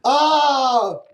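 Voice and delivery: high put-on British voice; claiming to be British in a bad British accent. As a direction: ham up a terrible British accent. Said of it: "I am British".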